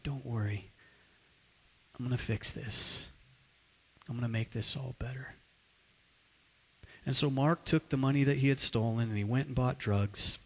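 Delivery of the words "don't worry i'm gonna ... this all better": softer, hushed reassurance; soft comforting. Acted. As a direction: quietly soothe her in your arms. Holds her, comforts her.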